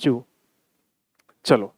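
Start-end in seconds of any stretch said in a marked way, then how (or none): 0.0-0.2 reading the sentence very slowly, word by word; teacher dictating the question slowly; slow read-aloud. Shown as a demonstration. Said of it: "तो यहाँ पर".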